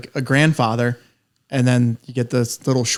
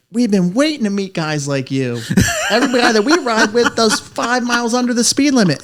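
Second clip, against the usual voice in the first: high, laughing, thrilled riders; thrilled riders laughing as they gush; excited, laughing quote; 9 semitones higher than usual. Retold or imitated. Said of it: "and they're like".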